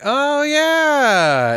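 high, loud put-on dad voice; mock dad. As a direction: ham up the oblivious father. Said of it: "And then he's like".

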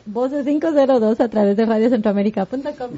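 voz de locutor al volver del corte; locución de radio. Acted. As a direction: anuncia el regreso al programa con energía. (locutor de radio anunciando el regreso)

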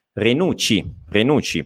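"Renucci" with a double ch, stress on the U; ch sound. Shown as a demonstration. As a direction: model "Renucci" as re-NOOT-chee. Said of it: "scritto così è Renucci".

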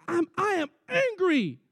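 high, firm admission to God; high, earnest mock-confession; honest confession. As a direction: say it straight out for once. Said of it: "I just said".

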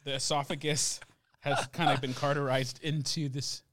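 quiet, throat scorched by pepper; burning throat from spicy food. Real, not acted. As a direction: speak through a burning throat. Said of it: "I don't have a throat anymore".

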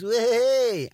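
hammed-up teen flashing his mate; whooping show-off. Lad shows off to friend: high, whooping. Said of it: "it was obviously just me and him".

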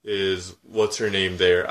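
slow polite. Retold or imitated. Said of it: "I couldn't just say".

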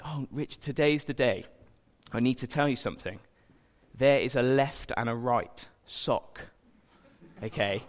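a hint of a dad breaking grave news; mock solemn dad. Dad voiced teasing lie.

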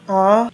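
a loud, flat moan; a first try at the moan; first attempt moan. Actor tries the moan the caller asked for. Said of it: "Okay, sir, I will try".

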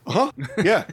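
a flat, unconvinced uh-huh; wary agreement. Retold or imitated. Telling friends his stock wary reply, unconvinced. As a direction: humor him without believing a word. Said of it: "my blanket response to that is".

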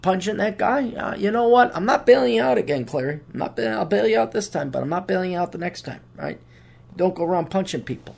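a touch of a scolding grumpy angel; lightly voiced stern angel, annoyed; grumpy guardian angel. Guardian angel Claude scolding the comedian, mild grumpy voice. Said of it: "He says".

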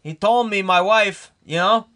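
light put-on Jewish accent, half normal. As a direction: tell about the Rebbe in a mild Jewish voice. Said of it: "Oh, you're doing his voice still?".

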